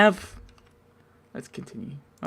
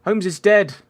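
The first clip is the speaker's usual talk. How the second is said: shocked announcement; 8 semitones higher, 7 dB louder than usual. Acted. Voicing dramatic cutscene line.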